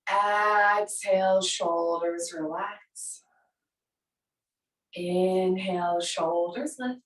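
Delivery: slow, drawn-out cues timed to the breath; long, slow yoga breathing count with pauses; breath-paced cueing. Shown as a demonstration. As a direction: stretch each cue across a full breath. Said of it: "Like this on the breath".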